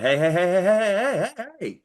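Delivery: acted alarm, rising in pitch; warning call. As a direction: call out to someone about to bump you. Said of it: "you kinda hit that".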